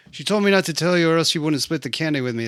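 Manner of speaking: put-on fast, high tattling kid voice; rushed kid snitching. Son snitching on his sister to dad, fast and high. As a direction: blurt it out like a guilty kid.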